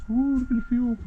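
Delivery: excited squeal. Real, not acted. Excited at the fuel.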